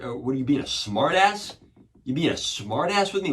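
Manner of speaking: indignant mock-cop challenge; confrontational cop. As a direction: imitate an officer picking a fight, high and loud. Cop confronts him in retold story.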